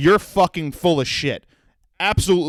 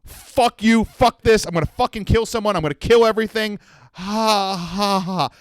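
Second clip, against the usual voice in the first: high-pitched mock rampage, trailing into ha-ha; retold rage; 6 semitones higher than usual. Customer seeing red, threatening everyone, acted high-pitched rage. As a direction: act out a hammed-up, unhinged tantrum. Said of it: "I literally just went from".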